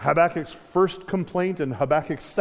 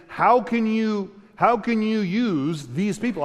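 pleading prophet; 4 semitones higher, slower than usual. Retold or imitated. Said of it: "So he's saying".

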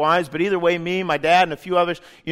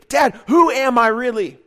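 louder plea to the Father; crying out; 4 semitones higher, 5 dB louder than usual. Shown as a demonstration. Preacher urging listeners to cry out to God. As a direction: call it out like a heartfelt cry. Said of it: "I want to encourage you to say".

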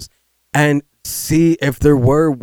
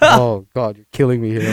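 trying not to laugh. Real, not acted. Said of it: "I'm trying to be serious".

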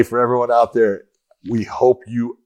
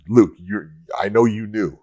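knowing tease. Shown as a demonstration. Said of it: "I was saying it like that".

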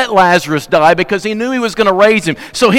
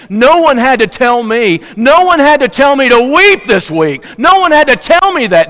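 "No one had to tell me" climbing higher and louder each time; building preaching shout; 6 semitones higher, 4 dB louder than usual. Real, not acted. Pastor telling the grieving church he wept, building to a shout. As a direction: preach it louder with every repeat until you're shouting. Preacher rising to full force.

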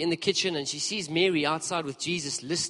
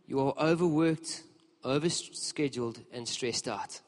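gentle; slower than usual. Retold or imitated. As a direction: soothe an overworked friend. Jesus speaking with kindness.

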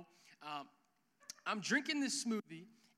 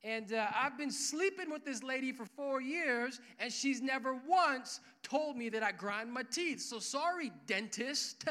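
smug flex; 4 semitones higher than usual. Retold or imitated. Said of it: "I had to flex on him".

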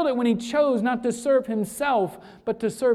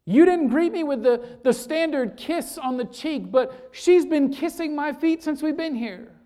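a hint of Jesus confronting his host, building; Jesus rebuking Simon; 4 semitones higher than usual. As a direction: press each charge harder than the last. Preacher voicing Jesus rebuking Simon.

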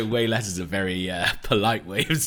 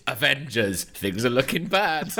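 dramatic headline voice; 5 semitones higher, slower than usual. Retold or imitated. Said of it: "the juicy headline in an Avengers thing is".

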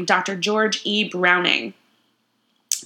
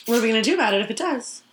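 silly voice; much faster than usual. Pretend. Fast odd voice.

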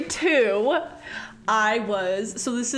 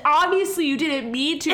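mock indignant retort, a bit higher; going off; 4 semitones higher, 4 dB louder than usual. Classmate snapping back at an apology, mock going off. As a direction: lightly imitate an annoyed classmate. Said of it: "like, going off on me".

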